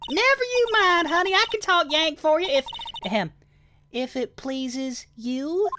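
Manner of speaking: a flirty country gal perking up at gossip; Southern accent. Acted. Southern witness excited about the murder, high Southern accent.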